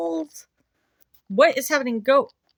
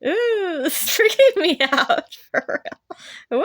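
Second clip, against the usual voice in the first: horrified amusement; 5 dB louder than usual. Real, not acted. Creeped out while laughing at game.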